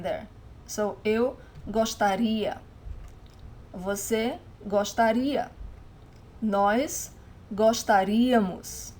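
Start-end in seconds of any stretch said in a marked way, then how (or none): 1.0-2.6 slow "gostaria", stressed on the "ri"; stress on final I. Shown as a demonstration. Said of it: "stress of the word is always in this final I". 3.7-5.5 teacher's slow "gostaria", weight on the í; stress on final I. Shown as a demonstration. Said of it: "stress of the word is always in this final I". 6.4-8.9 "gostaríamos" stressed on "rí". Shown as a demonstration. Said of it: "stress of the word is always in this final I".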